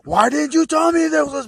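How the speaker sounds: shrieking high and loud in frantic delight; going crazy. Retold or imitated. Beerus demanding why nobody told him, frantic high shriek. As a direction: blurt it out at the top of the voice. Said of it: "he just goes crazy".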